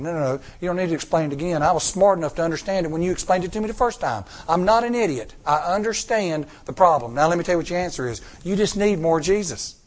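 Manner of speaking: fast, patronizing, rising in pitch; half-hearted mock annoyance; mock exasperated. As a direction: talk down to him quickly. Acted reply, preacher's side.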